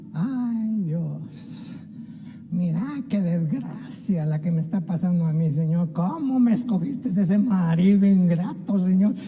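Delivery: a light send-up of a self-pitying wife moaning; whiny complaining prayer. Retold or imitated. Preacher mocking a complainer's prayer, lightly whiny. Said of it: "Pero solo quejándose".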